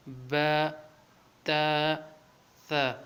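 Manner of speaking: با، تا، ثا each held a little; slightly stretched. Shown as a demonstration. Teacher modelling three letters for learners, slightly drawn با، تا، ثا. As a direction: lengthen the vowel of با، تا، ثا modestly. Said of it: "تینوں کو تھوڑا تھوڑا کھینچنا ہے".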